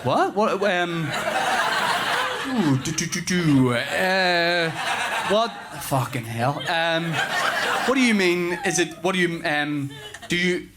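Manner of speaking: acted flustered dad, halting and filling time; flustered stalling. Dad stumped by his three-year-old's question about seas, flustered. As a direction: stall and splutter, stumped for an answer.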